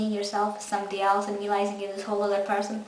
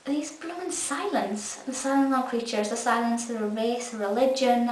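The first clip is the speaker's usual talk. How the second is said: pitched-up groaning sigh at the endless silence; mock exasperated rant; 2 semitones higher than usual. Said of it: "And I was like".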